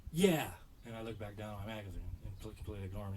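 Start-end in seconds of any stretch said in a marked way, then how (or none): 0.1-0.5 louder, flat dismissive yeah; bored curt yeah. Retold or imitated. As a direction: toss it off without looking up. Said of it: "and I go".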